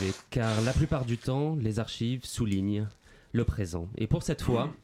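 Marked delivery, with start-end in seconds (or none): 4.0-4.7 after crying. Real, not acted. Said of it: "Mouchez-vous".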